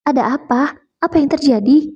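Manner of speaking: rapid worried questions. Acted. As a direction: fire the questions one after another. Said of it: "tanya Mama bertubi-tubi". (ibu cemas bertanya bertubi-tubi)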